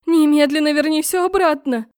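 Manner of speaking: loud, high furious demand; angry shout. Acted. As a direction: shout the order at him. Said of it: "выкрикнула я".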